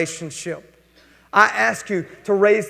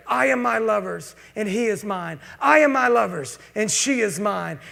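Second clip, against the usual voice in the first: tender vow; 4 dB quieter than usual. Pretend. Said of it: "when we come back together".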